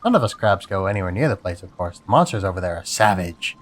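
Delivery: lightly voiced gossiping crab; a crab sharing a rumour. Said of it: "this is my crab voice".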